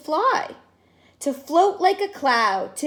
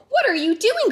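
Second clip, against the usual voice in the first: higher, amazed question; astonished cousin calling out; crying out; 8 semitones higher, 3 dB louder, faster than usual. Acted. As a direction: shout it in disbelief. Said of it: "cried Bijou".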